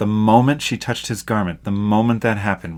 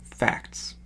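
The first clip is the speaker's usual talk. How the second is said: whispered aside; 9 dB quieter than usual. Real, not acted. Aside after doctrinal point.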